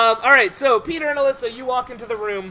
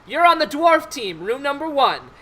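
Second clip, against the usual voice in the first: lightly voiced team announcer; 4 semitones higher than usual. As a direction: call out the team assignment, higher. Game master voices an official assigning teams.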